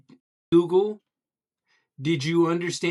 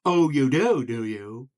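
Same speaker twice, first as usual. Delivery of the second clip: wide-open mouth, every syllable distinct; goofy big-mouth reply; big-mouthed frog. Acted. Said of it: "I've lowered my voice".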